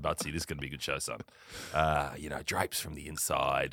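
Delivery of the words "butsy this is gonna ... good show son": quoted footballer. Retold or imitated.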